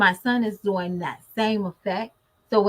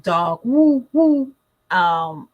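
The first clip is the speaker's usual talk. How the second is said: imitated dog bark; 5 dB louder, much slower than usual. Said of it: "all the animals that he can sound".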